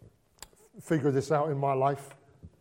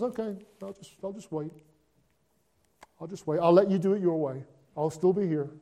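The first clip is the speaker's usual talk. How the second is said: patient God; faster than usual. Retold or imitated. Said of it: "And God just says".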